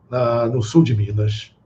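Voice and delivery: normal talking voice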